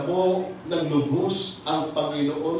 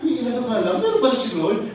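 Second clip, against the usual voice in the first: higher, laughing through the words; 9 semitones higher, 4 dB louder than usual. Real, not acted. Preacher laughing at his own joke to the church. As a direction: crack up at the punchline.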